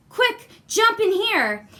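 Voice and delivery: high, loud, slow urgent call; urgent hurry. Acted. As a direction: hurry the boy into hiding. Woman urgently hides Jack.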